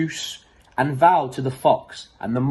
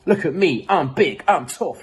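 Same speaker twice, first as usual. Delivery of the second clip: mild boastful growl; 4 semitones higher than usual. Acted. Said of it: "he would growl".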